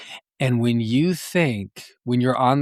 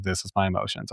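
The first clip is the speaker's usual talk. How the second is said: quick, quiet throwaway mutter; a passing quiet remark to yourself; brief self-talk; 3 semitones lower, 6 dB quieter, much faster than usual. Retold or imitated. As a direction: toss it off under your breath. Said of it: "a brief sort of self-talk".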